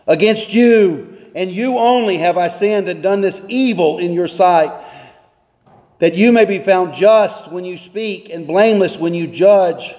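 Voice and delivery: measured, solemn reading of the psalm; scripture reading. Acted. Pastor reading the psalm to the congregation, solemn. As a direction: read it like sacred text.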